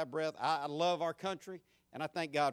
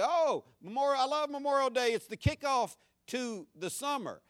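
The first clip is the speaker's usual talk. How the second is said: imitating gushing holiday fans; 8 semitones higher, 4 dB louder than usual. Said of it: "I've heard people say".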